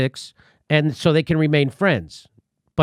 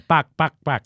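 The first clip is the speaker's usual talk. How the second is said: Dennis Miller impression. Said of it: "That's Dennis Miller".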